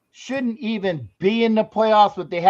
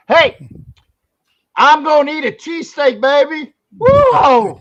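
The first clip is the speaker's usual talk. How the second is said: loud, high Philly accent attempt; mixed-up Philly accent; 7 semitones higher, 7 dB louder than usual. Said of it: "I'm mixing up my accents".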